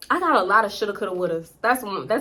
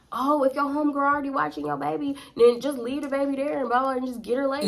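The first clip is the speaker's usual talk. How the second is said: retold coaxing man; 4 semitones higher than usual. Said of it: "he was like".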